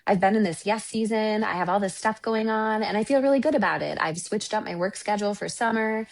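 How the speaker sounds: breezy, chipper mock client voice; upbeat client. Retelling a client who says everything is great, chipper and breezy. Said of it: "she was like".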